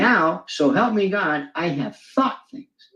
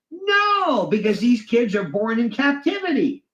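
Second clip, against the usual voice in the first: a squeaked-up sarcastic no; high sarcastic no; 4 semitones higher than usual. Retold or imitated. Squeaked-high mocking no to Orwell's question. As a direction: toss off a high dismissive no.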